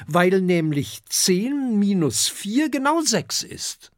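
put-on high, eager child-dragon voice; little dragon explaining. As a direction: lay out the sum in a high kid voice. (hohe, erklärende Kinderdrachenstimme)

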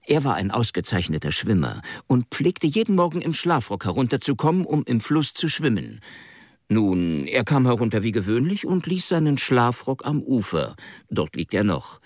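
put-on confused young man. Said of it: "in seiner verworrenen Art".

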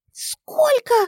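high shocked cry; возглас шока. A narrator's reading. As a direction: shriek it out in disbelief. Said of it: "воскликнула она". (потрясённый вскрик)

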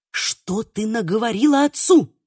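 plain reading voice

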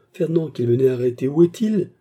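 high, loud, rising demand; frantic questioning. A narrator's reading. Patient asking maid about arrested man, frantic. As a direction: press urgently for an answer.

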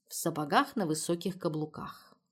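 ordinary delivery, nothing marked

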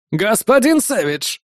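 slow, oily gangster call; smarmy gangster greeting. Acted. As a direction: hail him from the car, oily.

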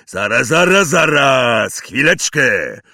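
loud, rising angry halt; furious giant. Acted. Hagrid to the Dursleys, furious shout. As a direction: stop everything in a rage. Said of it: "był tak wściekły".

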